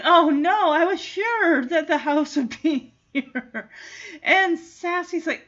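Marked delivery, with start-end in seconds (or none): 0.0-3.7 mock dismay broken by a laugh; a giggly cat's dismay; laughing through a quote. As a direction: voice Sassy while giggling, higher and louder. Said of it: "she's like".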